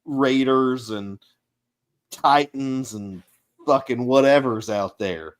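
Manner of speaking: bossy order, easing off; lightly voiced gruff boss. Game master as the NPC boss giving the player orders.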